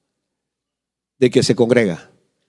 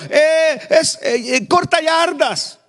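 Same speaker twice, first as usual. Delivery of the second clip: put-on high, halting kid's voice, slowing down; hesitant child; 12 semitones higher, slower than usual. Pastor voicing a shy classmate answering the teacher, high hesitant voice. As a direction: stumble over it like a shy boy.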